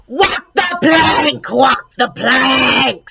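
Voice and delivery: drawn-out squawking parrot call. A narrator's reading. Parrot in the pet shop squawks slowly at passersby. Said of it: "It was a high, squeaky voice".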